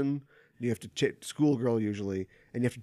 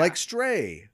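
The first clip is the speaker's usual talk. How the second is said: whisper; 7 semitones higher, 4 dB louder than usual. Real, not acted. Excited whisper of game name.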